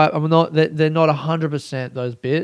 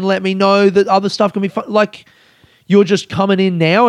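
indignant rant at absent critics; retold angry rant; 3 semitones higher than usual. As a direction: vent at them like they owe you. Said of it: "I'm really fucking angry at them".

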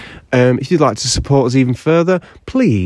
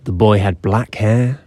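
epic fantasy narrator; 2 semitones lower than usual. Acted. Mock epic birth story intro.

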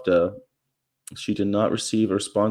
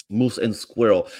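Boris voice. Retold or imitated. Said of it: "remember who Boris and Natasha were".

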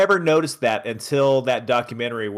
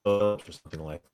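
glitching call audio; choppy, breaking-up connection; wobbly warbling call audio. Real, not acted. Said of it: "You're glitching out just a".

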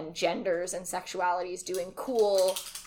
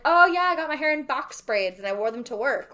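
higher, louder mock of a breezy white person; 5 semitones higher, 5 dB louder than usual. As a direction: toss it off like a smug trendsetter. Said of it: "White people wanna be like".

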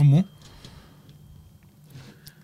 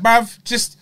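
impatient; 4 semitones higher, much slower than usual. Retold or imitated. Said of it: "I'm like".

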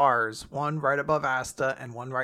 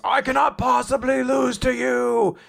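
higher and louder, a hammed-up demon scream; mock villain scream; 8 semitones higher, 5 dB louder than usual. Lucifero refusing defeat against the boys, hammed-up scream. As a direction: roar it like a raging demon king. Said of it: "And he just screams".

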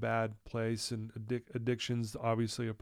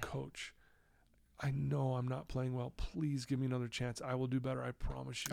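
softer, a touch of retold crying in the pleading; tearful plea; 6 dB quieter than usual. Begging the coach for another chance, softly tearful. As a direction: beg quietly, as if holding back tears. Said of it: "I'm crying".

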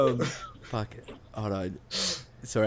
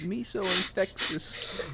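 high, slow mock Chinese accent; lightly put-on Chinese accent voice; bad Chinese accent; 7 semitones higher, 8 dB quieter, slower than usual. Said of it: "this bad Chinese accent".

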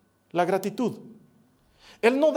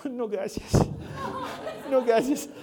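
put-on toddler voice; 5 semitones higher, slower than usual. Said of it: "habla como bebé todavía".

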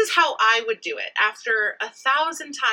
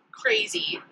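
whispered gossip. Real, not acted. Gossip about the office.

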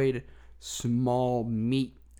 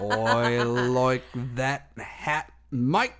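mock Australian accent; 3 dB louder, much slower than usual. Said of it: "I really had Australian down".

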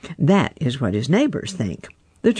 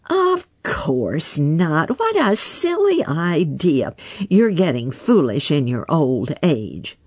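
retorting; 3 semitones higher than usual. Acted. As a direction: scoff at the old frog. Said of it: "retorted Little Joe".

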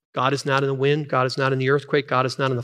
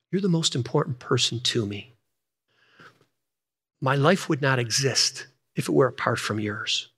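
gently lowered voice, not a true whisper; intimate whisper, imitated; 2 semitones lower than usual. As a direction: murmur tenderly to your bride. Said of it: "and I whisper in her ear".

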